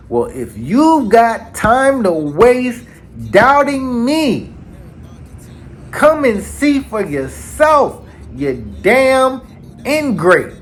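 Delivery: high, slow mock yell, voice straining upward; imitated yelling. Kizaru yelling at Sakazuki through tears, high slow mock yell. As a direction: shout it high and slow like you're breaking down. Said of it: "He is yelling".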